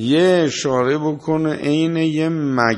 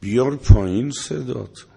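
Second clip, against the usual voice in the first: louder, punching بیار with a falling end; a stern preacher's order; بیار stressed hard, firm and loud; emphatic command; 4 dB louder than usual. Real, not acted. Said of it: "وغضض من صوتک".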